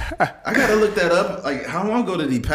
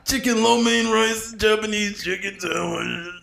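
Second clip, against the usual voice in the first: Macho Man voice; 9 semitones higher than usual. Pretend. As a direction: order food like Macho Man. Macho Man ordering food.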